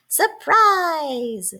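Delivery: understated cheerful shout; mild shout. A narrator's reading. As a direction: announce it with mock excitement. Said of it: "shouted Mole".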